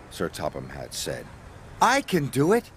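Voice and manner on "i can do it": higher, keen and eager; eager little engine; eager puff. A narrator's reading. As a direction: jump in to volunteer, a little breathless. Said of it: "puffed Thomas".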